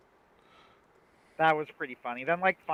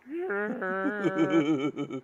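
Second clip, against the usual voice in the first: imitated growl; 5 semitones higher, 4 dB louder than usual. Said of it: "he's just like".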